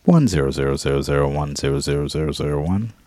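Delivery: robot saying binary. Acted. Robot reciting binary code.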